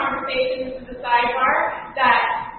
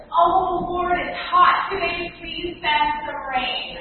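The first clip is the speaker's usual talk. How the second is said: mock complaining plea, raised a little; whining prayer; 4 semitones higher, slower than usual. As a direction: whine it to God like a petty request. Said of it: "you whining and complaining prayer".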